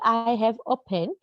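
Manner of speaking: very slow, word-by-word example; slow example read. Shown as a demonstration. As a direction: dictate it to the class. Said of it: "teacher reads example sentence". (बहुत धीरे उदाहरण बोलना)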